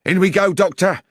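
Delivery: high, loud urgent call; rally him to charge in. A narrator's reading. Charging into the room.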